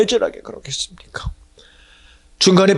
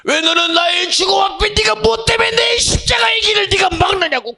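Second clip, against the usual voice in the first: stern rebuke. Acted. The Lord rebuking his disciple before the others, crying shout. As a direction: drive the tempter away with a shout. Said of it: "꾸짖는 거요".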